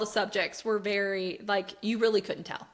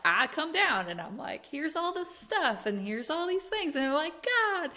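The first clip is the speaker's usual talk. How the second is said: exasperated retelling; 6 semitones higher than usual. Retold or imitated. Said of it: "every single time he's like".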